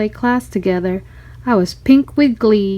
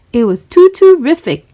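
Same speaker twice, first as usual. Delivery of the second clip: louder, higher, gleeful; proud delight; 4 semitones higher, 5 dB louder than usual. A narrator's reading. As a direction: announce it proudly to a friend. Proud answer to Allison.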